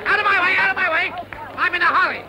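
barge through in a rush; excited shouting. Acted. Rushing off to stop telegram.

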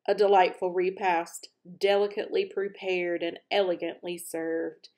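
loud pronouncement to the room; mild grand announcement; announcing. A narrator's reading. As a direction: announce it to no one in particular. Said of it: "he announced to no one".

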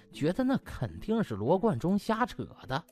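ordinary delivery

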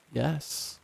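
soft, hissing creature voice; hissed yes. A narrator's reading. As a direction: hiss it through gritted teeth. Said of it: "It hissed loudly".

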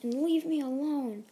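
a boy's desperate mock yell. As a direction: belt it out like a kid at the end of his rope. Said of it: "Deku just yells".

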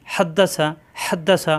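হাদ্দাসা opening on an H squeezed from the throat; pressed throat H. Shown as a demonstration. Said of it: "কণ্ঠনালীতে চাপ দিয়ে". (হাদ্দাসা কণ্ঠনালীতে চাপ দিয়ে)

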